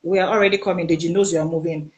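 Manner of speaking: low, hushed warning relayed from a friend; half-whispered, urgent warning; retold whisper. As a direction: drop the voice low, as if tipping someone off secretly. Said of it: "he was whispering".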